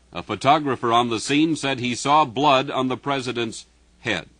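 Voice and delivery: urgent radio bulletin read; urgent news bulletin. Real, not acted.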